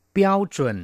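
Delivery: teacher's clear word call; vocabulary model word. Shown as a demonstration. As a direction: announce เปี้ยวเจิน clearly. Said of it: "แปลว่าได้มาตรฐาน".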